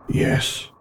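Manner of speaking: tiny, breathy yes; very small voice. A narrator's reading. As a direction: barely voice it. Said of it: "in a voice so small".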